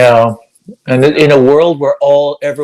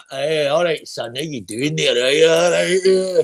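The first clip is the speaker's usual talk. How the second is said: imitating Glaswegian father; 3 dB quieter than usual. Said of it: "my father talked like that".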